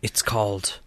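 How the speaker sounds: hushed mystery whisper. Pretend. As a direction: whisper it like a secret legend. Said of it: "Why are you whispering?".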